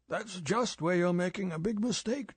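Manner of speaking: put-on stiff, reproving older boss; severe old chief. A narrator's reading. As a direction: scold him like a stern superior. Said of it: "M said severely".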